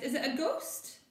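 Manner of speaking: high, fearful question; scared whisper-turned-cry; frightened. Acted. Maggie clinging to Mum in the night, fearful.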